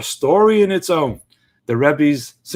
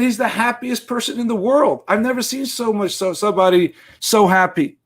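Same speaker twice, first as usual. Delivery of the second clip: put-on higher boy's voice, eager; a kid convinced of what he sees; lightly voiced excited boy; insistent child; 6 semitones higher than usual.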